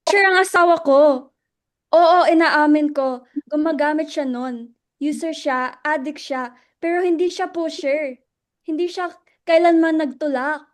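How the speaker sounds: wounded wife snapping back at the accusation; emotional outburst. Acted. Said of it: "Mababahala sa pagiging emosyonal ni Luella".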